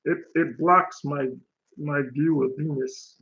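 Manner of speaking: lightly voiced cartoon alien; a hint of polite alien villain; Marvin the Martian. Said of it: "Marvin the Martian".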